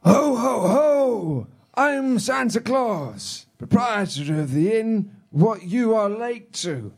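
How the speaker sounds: A singer's Santa Claus. Acted. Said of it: "You're like a singer's Santa Claus".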